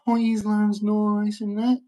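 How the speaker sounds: mocking them. Ranting vlogger mocks naive English people, slow sneering mimic. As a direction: parrot their naive line with contempt. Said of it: "who keep going".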